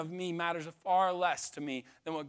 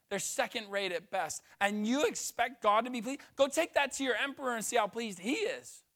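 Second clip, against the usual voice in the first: raised, scolding questions; a hint of an angry prophet; rebuking prophet; 3 semitones higher than usual. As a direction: chew out the priests. Malachi rebuking priests, voiced.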